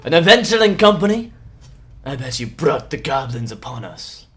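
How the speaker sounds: scornful father, loud at the start; indignant, accusing tirade; yelling angry father. Acted. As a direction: berate the newcomers in character. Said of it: "as is yelling".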